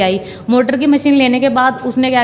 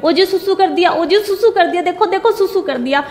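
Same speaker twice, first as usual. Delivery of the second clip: high, overjoyed cry to her husband, half laughing through tears; relieved mother calling her husband from another room, high and tearful; 7 semitones higher than usual. Retold or imitated. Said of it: "रोते-रोते चिल्ला-चिल्ला के कह रही हूँ".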